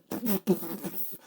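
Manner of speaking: imitated puffing smoke bombs; vocal sound effect of smoke bombs; smoke bomb noise. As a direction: mouth a burst of smoke bombs going off.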